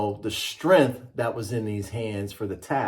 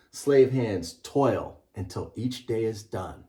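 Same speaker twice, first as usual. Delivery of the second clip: measured storybook read-aloud; slower than usual. Acted. Author reading his book to a class, measured and rhythmic. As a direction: read it like a picture book to children.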